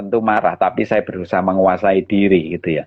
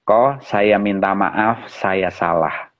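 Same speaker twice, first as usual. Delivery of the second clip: slow, subdued apology; retold apology; 3 semitones lower, slower than usual. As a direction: apologise simply, dropping low at the end. Retold humble apology to the man.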